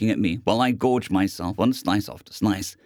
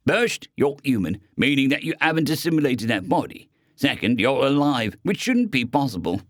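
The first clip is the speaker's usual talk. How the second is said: menacing robot gunman; 3 semitones higher than usual. Acted. Robot explains.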